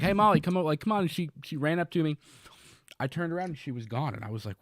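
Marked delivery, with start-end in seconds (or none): 0.0-1.0 raised voice calling out to the dog. Retold or imitated. Owner calling his dog across the field, raised voice. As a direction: call her back across the field.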